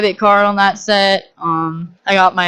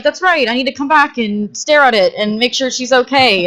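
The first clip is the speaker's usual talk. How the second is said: sarcastic agreement; 4 semitones higher than usual. Retold or imitated. Sarcastic self-quote after scolding.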